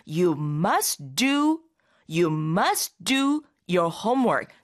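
You must do, paused, then repeated slowly in full; slow pronunciation demo. Shown as a demonstration. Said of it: "이런 식으로 발음하게 되죠". (발음 시범으로 you must do를 천천히 반복)

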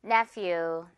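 Nephew with the few part held a little longer; slow teacher demo of Nephew, few lengthened; drawn-out few. Shown as a demonstration. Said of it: "few 부분은 조금 길게 끌어도 주세요".

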